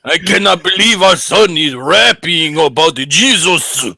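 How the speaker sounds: put-on Asian accent. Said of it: "your Asian accent".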